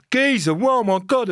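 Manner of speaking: high, drawn-out matey exclamation; slow, high-pitched retold amazement; delighted greeting. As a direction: greet a star like a long-lost mate. Retold fans greeting him with delight.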